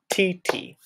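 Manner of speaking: "T, T." light, high and quick; eighth note sounds. Shown as a demonstration. Music teacher showing how eighth notes sound. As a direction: tap out "T, T." as two short beats. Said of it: "those sound like this".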